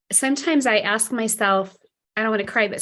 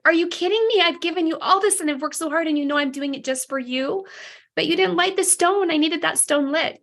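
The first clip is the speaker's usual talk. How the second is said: high-pitched frustrated outburst to God; upset complaint; 5 semitones higher than usual. Retold or imitated. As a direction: retell the hurt disbelief, voice up high. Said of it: "And I was so upset".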